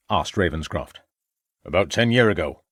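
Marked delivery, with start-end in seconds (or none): 1.6-2.6 put-on old farmer. A narrator's reading. Old farmer answers the inspector.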